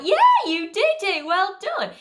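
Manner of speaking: high, loud excited praise; "Yeah, you did it" as a big happy cheer; praising puppy. Retold or imitated. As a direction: cheer the dog on like it just sat. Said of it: "we were like".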